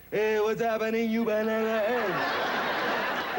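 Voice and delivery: slow, drawled tough-guy greeting; lazy cool-cat drawl. Shown as a demonstration. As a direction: swagger it out like a hip dude. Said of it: "and I'll talk like this".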